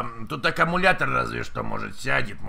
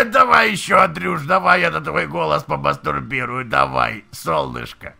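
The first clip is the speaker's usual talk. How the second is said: mock passionate shouting; 5 dB louder than usual. Mock sex talk on prank call.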